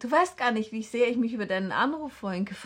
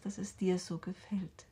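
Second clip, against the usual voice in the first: soft whisper; 7 dB quieter than usual. Acted. Trailing to fiancé.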